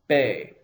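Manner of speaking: BE said as "bay", vowel held; long A sound. Shown as a demonstration. Teacher pronouncing beit with tsere, long BE. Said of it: "I would pronounce this".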